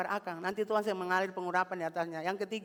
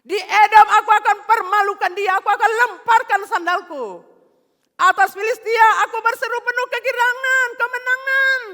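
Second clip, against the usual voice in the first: God's booming voice; 14 semitones higher, 17 dB louder than usual. Acted. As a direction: thunder out the words as God.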